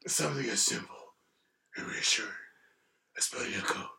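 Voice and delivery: hushed hero voice cracking into laughter; awful movie-hero impression. Shown as a demonstration. Struggling through the quote for the hosts, whispered mock-solemn impression. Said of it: "I do an awful impression".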